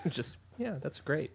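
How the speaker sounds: high breathless laugh. Real, not acted. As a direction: laugh through the words. Laughing through the words.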